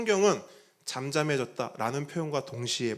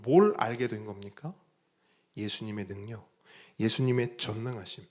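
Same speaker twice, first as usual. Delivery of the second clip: ordinary talk, nothing marked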